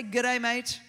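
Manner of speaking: loud Australian greeting for a crowd to copy; Australian accent, said as a call-and-repeat. Shown as a demonstration. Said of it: "You sound so Australian".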